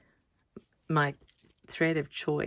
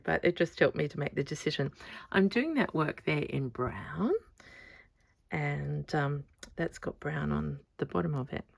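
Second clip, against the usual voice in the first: ordinary delivery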